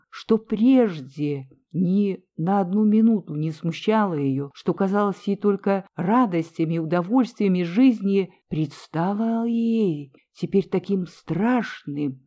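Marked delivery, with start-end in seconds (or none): none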